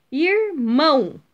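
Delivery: "Irmão" slowly split, "mão" long and strong; stress on last syllable. Shown as a demonstration. Teacher showing pupils the tonic syllable, stressing "mão" in slow "Irmão". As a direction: draw out "Irmão", landing hard on "mão". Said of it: "O mão é a sílaba tônica".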